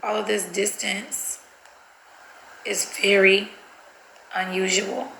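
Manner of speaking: slow, halting dictation with long gaps. Shown as a demonstration. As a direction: sound it out piece by piece as you type. Sounds out words while typing them.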